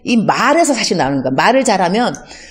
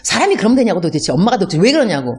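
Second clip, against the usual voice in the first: complaining wife; faster than usual. Retold or imitated. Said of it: "어머니 욕하는 거죠".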